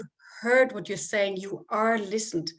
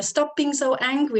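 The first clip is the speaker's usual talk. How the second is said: scolding parent; 5 semitones higher, 4 dB louder than usual. Retold or imitated. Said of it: "start saying to stop the emotions".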